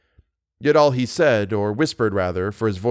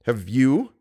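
sharp; 3 semitones higher than usual. A narrator's reading. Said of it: "asked Simpson sharply".

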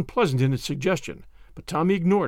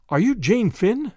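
slow, breathless and higher, pushing the question; 5 semitones higher, 3 dB louder, slower than usual. A narrator's reading. Tommy asks the girl, breathless and hopeful. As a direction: gasp it out, hardly daring to hope. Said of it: "he asked breathlessly".

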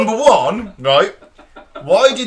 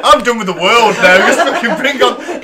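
laughing and louder, mock despair; 3 semitones higher, 6 dB louder than usual. Real, not acted. Host laughing in mock despair at the video, louder. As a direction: crack up while declaring you're done.

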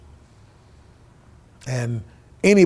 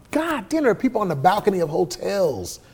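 amazed; 5 semitones higher than usual. Retold or imitated. Amazed at first sold-out club.

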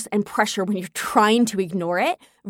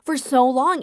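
pitched way up in disbelief at her own past self; amazed relief; 7 semitones higher than usual. Retold or imitated. Looking back on the old bug apartment, high incredulous exclamation. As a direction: marvel at how crazy it was, laughing mid-line. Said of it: "I was like".

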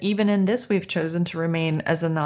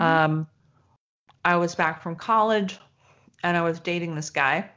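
talking while chewing ice; words around a mouthful of ice. Real, not acted. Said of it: "Sorry, I'm chewing ice".

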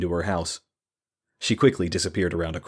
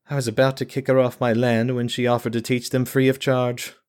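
flat, weary monotone voice; 5 semitones higher than usual. Acted. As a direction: drag it out with no life left. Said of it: "She continued in that same monotone".

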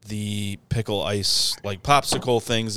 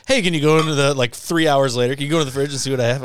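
imitating friend's text; 5 semitones higher, 6 dB louder, faster than usual. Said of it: "Corey text message".

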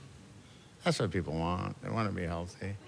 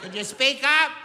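embarrassed customer. Acted. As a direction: back out of it, flustered. Embarrassed old customer reacting.

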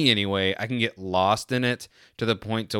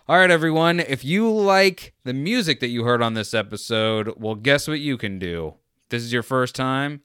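announcer voice. Shown as a demonstration. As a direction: hype it up like a show announcer. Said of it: "That was my announcer voice".

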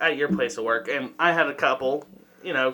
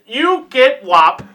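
slow, loud, high fake African accent; poor African accent; 8 semitones higher, 5 dB louder, slower than usual. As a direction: order him about in a badly faked African accent. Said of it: "In the poorest African accent I can fucking muster".

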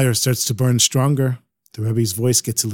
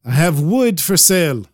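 lightly put-on Ukrainian accent; 4 semitones higher than usual. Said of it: "He speaks with a real Ukrainian accent".

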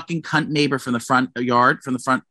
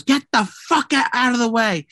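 much higher, half-shouted mock yell of the neighbor; neighbor screaming; 9 semitones higher than usual. Retelling the neighbor yelling at the delivery guy, high mock shriek. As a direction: mimic the angry neighbor screeching at them. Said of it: "she goes".

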